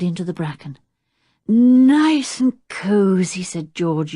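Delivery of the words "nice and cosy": slow, whispered through a yawn; sleepy yawn. A narrator's reading. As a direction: murmur it half-asleep, yawning.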